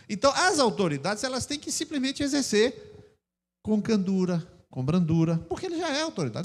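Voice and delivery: ordinary talk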